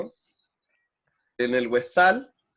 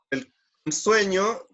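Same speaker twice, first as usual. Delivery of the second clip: slow drawn-out; 6 semitones higher, much slower than usual. Shown as a demonstration. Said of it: "teacher stretches the word".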